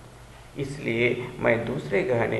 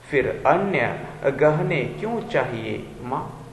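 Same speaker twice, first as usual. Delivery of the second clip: poem recitation. Acted. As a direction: recite line by line, stretching key words. Recites the poem aloud to class. (धीमा, लयबद्ध कविता-पाठ)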